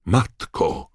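high, loud call for mother; frightened son's shout; desperate cry. A narrator's reading. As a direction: cry out for rescue. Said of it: "krzyknął młodzieniec".

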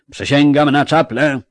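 loud, high knightly cry; exclaimed oath. Acted. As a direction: cry out a vow to the whole feast. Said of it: "zakrzyknął".

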